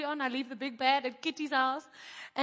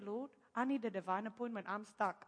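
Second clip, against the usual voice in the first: stranded plea; 4 semitones lower, 8 dB quieter than usual. Retold or imitated. Retold low prayer when stranded.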